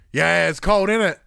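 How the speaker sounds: put-on loud, high kid's reply; cheeky child re-enacted loudly; imitated gleeful child. Child gleefully answers shocked dad.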